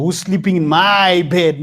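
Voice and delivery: a hint of Papa Bear's grumble; mock fairy-tale bear asking; three bears voice. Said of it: "he wasn't like the three bears".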